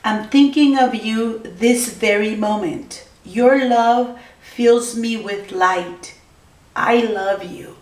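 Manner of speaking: slow, tender message read; slow, gentle reading of a love message. Acted. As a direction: read it out slowly like a love note. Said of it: "Gemini says".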